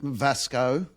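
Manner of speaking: Vasco with a clear s, lifted at the end; name pronunciation demo. Shown as a demonstration. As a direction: model Vasco as VAS-koh, rising slightly. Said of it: "how do you pronounce your name".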